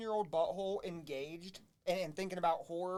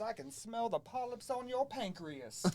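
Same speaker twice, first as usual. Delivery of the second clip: Southern Jack Carver; 3 semitones higher, slower than usual. Acted. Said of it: "a Southern Jack Carver".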